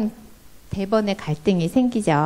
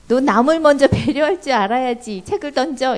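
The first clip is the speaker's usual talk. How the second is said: lecturing mom; 5 semitones higher than usual. Retold or imitated. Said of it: "이렇게 하기는 조금 그렇고".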